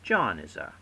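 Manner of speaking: "John is a" with stressed "John", then two slack words; stress on first word. Shown as a demonstration. Teacher demonstrating a dactyl, stress on "John" in "John is a". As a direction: hit "John", let "is a" fall away unstressed. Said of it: "one stressed followed by two slack".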